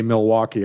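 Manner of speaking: "Milwaukee" in three full syllables; "Milwaukee" pronounced in full, like a non-local; outsider pronunciation. Shown as a demonstration. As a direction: say every syllable of "Milwaukee", Mil-wau-kee. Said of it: "know you're not from Milwaukee".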